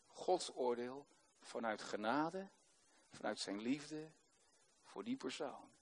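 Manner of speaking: awed, hushed testimony. Real, not acted. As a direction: let the words sink to almost nothing. Intimate testimony of God's sword.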